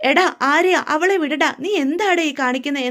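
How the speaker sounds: mother yelling to stop her son; shouting mother. Acted. Gomathi shouting at her son Aryan to stop hitting Anu. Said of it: "ബഹളം വെച്ചുകൊണ്ട് വരുമ്പം".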